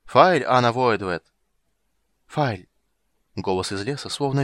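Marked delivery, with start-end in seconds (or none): 0.1-2.7 slow Elder Speech call. A narrator's reading. Elvish farewell calls.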